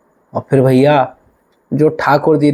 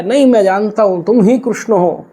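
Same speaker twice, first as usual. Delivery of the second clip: 1 tearful insistence; 5 semitones higher than usual. Acted. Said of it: "बाबा और रोवे और विह्वल हो जाए".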